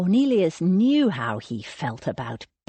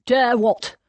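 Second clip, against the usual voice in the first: louder, higher nervous query; 5 semitones higher, 5 dB louder than usual. A narrator's reading. Cornelius confronted by angry Thomas, nervous. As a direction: blurt it nervously, pitched up. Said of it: "Cornelius said nervously".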